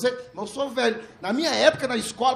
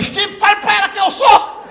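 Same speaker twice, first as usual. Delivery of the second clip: commanding shout; 9 semitones higher, 10 dB louder than usual. Retold or imitated. Commanding tone to Bruno.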